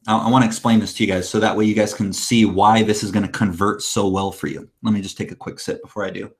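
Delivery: parched, dry-mouthed talking. Real, not acted. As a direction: speak as if needing a drink. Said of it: "I'm parched".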